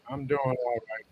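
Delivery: distant, far-off voice; sounding far away; through a wall. Real, not acted. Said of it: "you sound really far away".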